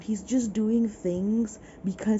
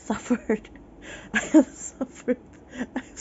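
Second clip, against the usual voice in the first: melodramatic wail; 5 semitones higher than usual. Acted. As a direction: ham up the suffering. Dramatic complaint about book.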